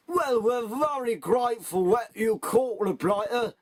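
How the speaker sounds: slow Cockney bobby voice; a London copper thanking the kids, in Cockney; slow, hearty Cockney accent; Cockney policeman. Acted. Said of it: "said the Cockney policeman".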